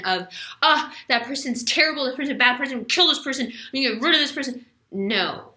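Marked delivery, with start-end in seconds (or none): 0.6-4.7 leonine outburst. Retold or imitated. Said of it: "the leonine reaction".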